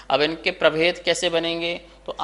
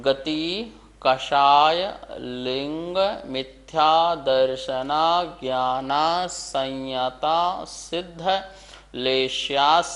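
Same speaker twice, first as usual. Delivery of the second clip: word by word; slower than usual. Shown as a demonstration. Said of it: "देखिए यहाँ पर".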